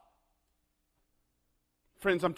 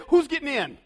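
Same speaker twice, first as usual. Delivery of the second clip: challenging showman; 6 semitones higher, 5 dB louder than usual. Acted. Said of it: "He then said".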